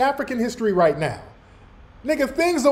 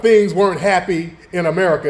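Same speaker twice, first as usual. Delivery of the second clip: lower, badly faked British accent; mock British accent; 5 semitones lower than usual. Reactor mocking her talk of America, mock British accent. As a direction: mimic a British speaker in a low put-on voice. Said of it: "up here with a British accent".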